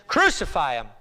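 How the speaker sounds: forceful first syllable, falling away; mild acted shout; crowd's cry. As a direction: cry it out like a mob's demand. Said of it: "And they cried out again".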